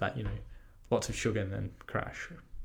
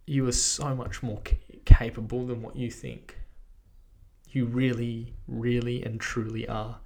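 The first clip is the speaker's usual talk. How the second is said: emotional. Real, not acted. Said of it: "I just got a bit emotional there".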